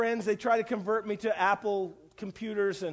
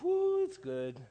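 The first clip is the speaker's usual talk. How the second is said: high relieved whoo, it's good; a sudden squeak of relief; relieved whoop; 8 semitones higher, 4 dB quieter, slower than usual. Retold or imitated. Pastor seeing his dead iPad come back to life, whooping.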